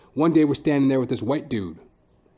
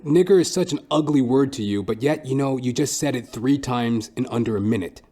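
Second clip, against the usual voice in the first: ordinary delivery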